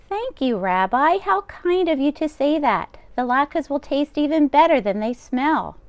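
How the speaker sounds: put-on old grandmother voice. Old baba taking the rabbi's coat, high and fussing. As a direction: bustle like a kind deaf baba. Baba voicing lines to Bear.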